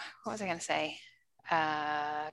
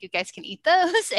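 airy mom voice; 9 semitones higher, 4 dB louder than usual. Retold or imitated. Mom telling kids eat muffins.

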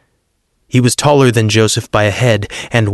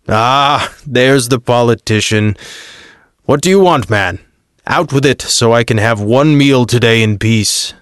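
scornful Pilate. Acted. Pilate to Joseph, bored and scornful governor voice. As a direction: sneer at the politician, impatient.

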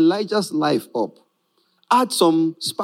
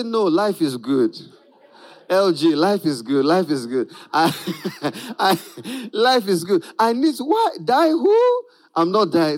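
blissful mock food lover, savouring; contented cake eater. Preacher voicing a blissful cake eater, mock savouring. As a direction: savour it like the best cake ever.

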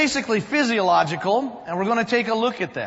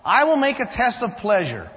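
formal reading of Ecclesiastes; scripture reading; 4 dB louder than usual. Acted. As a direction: read the passage like a solemn text. Reads scripture before the sermon.

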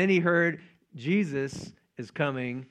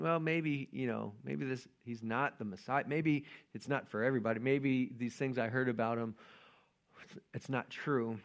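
low, soft musing; doubting inner voice; 4 semitones lower, 9 dB quieter than usual. Acted. Believer gone quiet starting to question, low doubtful musing. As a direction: let doubt creep in, subdued and tentative. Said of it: "you start to really think".

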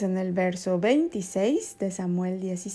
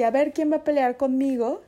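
boastful giant; 6 semitones higher, 5 dB louder than usual. Acted. Goliath voiced boasting.

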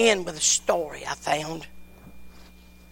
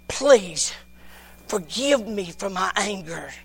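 broken apology; slower than usual. Retold or imitated. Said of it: "In a very broken, brokenness".

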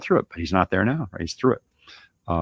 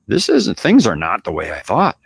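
dismayed quote; 3 semitones higher, 6 dB louder than usual. Retold or imitated. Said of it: "you end up with".

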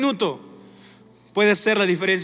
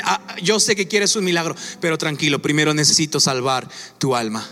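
Jesús tranquilizador; 5 semitones lower than usual. Retold or imitated. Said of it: "va a decir".

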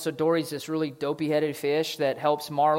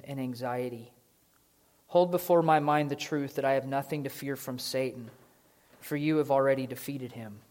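prayer. Acted. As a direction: pray it over the room. Reads a written prayer.

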